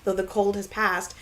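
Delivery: stuffy blocked nose; congested. Real, not acted. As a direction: speak through a stuffed-up nose. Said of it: "I'm still very congested".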